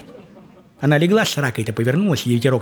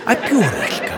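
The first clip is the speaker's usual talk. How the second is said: "пёрышко" said higher with a laugh; stressed correction; 6 semitones higher, slower than usual. Acted. Teller corrects himself, "пёрышко" stressed higher with a laugh. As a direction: hit "а пёрышко" as the punchline.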